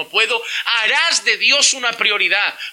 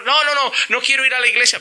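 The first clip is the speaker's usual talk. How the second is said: put-on whining child; 4 semitones higher, faster than usual. Child refusing church.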